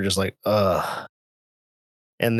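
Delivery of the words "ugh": low groan of misery; miserable groan. Retold or imitated. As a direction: groan like your head is pounding. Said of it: "I just laid there on the creeper".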